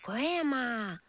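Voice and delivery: put-on slow, wide-eyed child voice; a hint of a nervous little girl; girl noticing the wolf's teeth; wondering girl.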